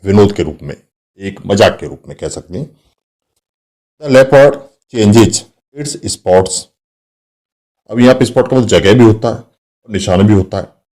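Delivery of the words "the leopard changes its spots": very slow, deliberate reading of the sentence; teacher reading an example aloud to the class, slowly and clearly. Shown as a demonstration. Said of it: "teacher reads example slowly".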